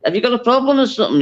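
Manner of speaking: quick, lightly done Scouse challenge; a hint of a cocky Liverpool singer. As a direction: fire it off fast in a nasal Liverpool accent. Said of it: "I couldn't stop talking in John's voice".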